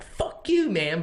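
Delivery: sudden high yelp of an insult; road rage insult. Retold or imitated. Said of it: "is like".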